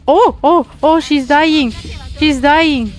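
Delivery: startled high oh, she's dying; real panic as she dies; alarmed cry. Real, not acted. Character dying in game.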